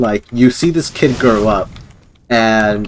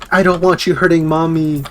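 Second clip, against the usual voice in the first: higher, childlike mock plea; pleading little kid; 5 semitones higher than usual. Kid battling his inner demon, pleading. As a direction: plead like a small boy defending his mother. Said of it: "the kid was, like, battling".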